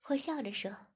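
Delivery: usual speaking voice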